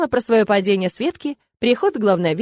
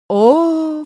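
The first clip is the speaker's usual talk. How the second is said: drawn-out oh; 7 semitones higher, 6 dB louder than usual. A narrator's reading. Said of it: "протянула Нелла".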